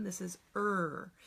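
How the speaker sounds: slow "er" held out; phonogram er. Shown as a demonstration. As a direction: stretch the "er" sound. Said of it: "I showed you this one".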